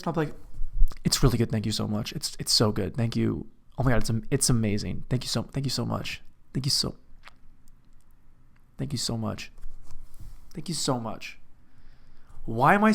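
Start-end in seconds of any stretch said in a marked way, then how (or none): 1.0-11.4 overly grateful diner. Retold or imitated. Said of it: "change the tone of my voice".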